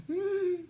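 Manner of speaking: put-on high little "mm" of a sulking child; pouty whine. Imitating the girl pouting on camera, high pouty whine. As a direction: mimic a toddler's pouty hum.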